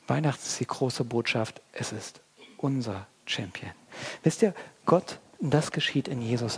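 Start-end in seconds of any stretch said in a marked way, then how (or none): 1.7-3.7 whisper. Real, not acted.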